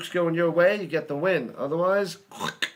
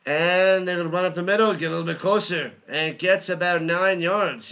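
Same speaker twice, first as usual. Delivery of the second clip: louder play-by-play, quick at the start; play-by-play call; 4 dB louder than usual. Acted. Fan calling the Michigan run for viewers, louder play-by-play.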